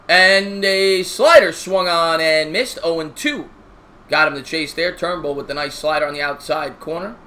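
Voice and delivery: slow broadcaster call on a pitch; play-by-play announcer. Acted.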